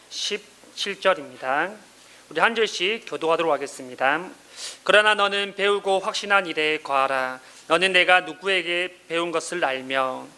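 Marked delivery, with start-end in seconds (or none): 4.8-10.3 measured, even-toned Bible reading; scripture reading. A narrator's reading. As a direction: read the verses out evenly and formally. Reads the scripture passage aloud. (차분하고 고른 어조의 성경 봉독)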